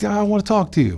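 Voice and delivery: lightly voiced neighbour; a hint of the other inmate speaking; inmate's reply. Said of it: "He's like".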